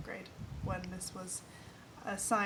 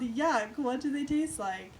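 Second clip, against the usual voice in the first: yelling; 3 semitones higher, 5 dB louder than usual. Acted. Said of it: "I yelled".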